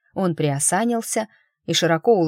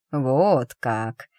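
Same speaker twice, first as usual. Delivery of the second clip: purring intonation; 4 semitones lower than usual. Acted. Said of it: "со странной мурлыкающей интонацией".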